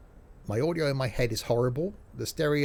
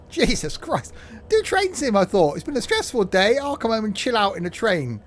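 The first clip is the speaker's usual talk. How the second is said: loud, high sarcastic venting; real exasperation; exasperated rant; 5 semitones higher, 4 dB louder than usual. Real, not acted. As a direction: vent your frustration. Venting after stressful game.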